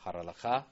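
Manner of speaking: Charalacha with the stress on Cha, said as one word. Shown as a demonstration. Teacher drilling stress: Charalacha stressed on Cha. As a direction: hit Cha in Charalacha, run it together. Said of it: "the accents on Cha".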